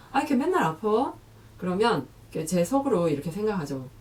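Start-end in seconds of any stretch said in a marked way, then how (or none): 0.1-1.1 a higher, reproachful jab with 맨날 stretched; needling in-law. Acted. In-law jabbing at a daughter-in-law who is sick again, reproachful. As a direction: needle her about always being sick. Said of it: "누군가 한마디 하는 거예요".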